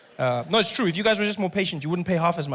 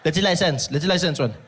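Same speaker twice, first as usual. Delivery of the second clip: loud, slow licence demand; demanding cop; 5 dB louder, slower than usual. Retold or imitated. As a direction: drag the word out like a bored cop.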